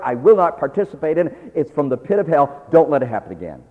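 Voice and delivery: stern rebuke. Retold or imitated. Rebuking a gossip, commanding.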